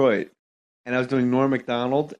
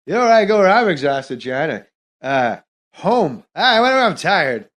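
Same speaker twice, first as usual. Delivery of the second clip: Norm Macdonald impression. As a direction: ramble and circle back like Norm. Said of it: "but I'm doing Norm".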